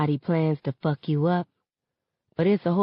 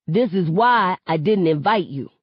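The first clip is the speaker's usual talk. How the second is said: shout; 4 dB louder than usual. Acted. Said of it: "Seven shouts".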